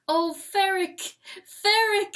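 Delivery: a hint of triumphant joy; wife exulting as she comes up behind him. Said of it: "she exults".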